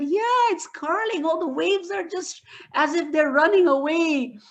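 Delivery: put-on high, eager child's voice; thrilled boy pointing at the sea; excited grandson. Grandson excitedly telling grandpa about the waves, high and eager.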